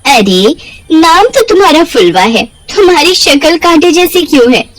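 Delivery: taunting laugh. Acted. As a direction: laugh while mocking her face. Sumita taunts Phulwa, laughing. (हँसते हुए ताना, ऊँची आवाज़)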